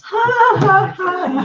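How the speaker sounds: high, hollow mock "ha, ha, ha"; forced laugh. Lizzie pretending to find her father's news funny, forced laugh. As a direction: imitate a strained, fake laugh. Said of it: "And Lizzie's like".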